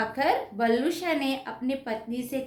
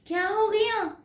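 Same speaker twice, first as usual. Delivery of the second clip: wife's startled question, pitched higher; surprised wife; 8 semitones higher than usual. Acted. Wife startled by her husband's news, asks in surprise. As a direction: gasp it out in sudden surprise. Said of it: "हैरानी होकर".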